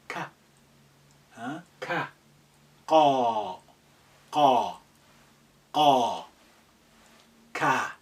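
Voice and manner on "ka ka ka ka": ka repeated clearly; kaf drill. Shown as a demonstration. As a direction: model ka with visible mouth movement. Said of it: "Look at the, the movement".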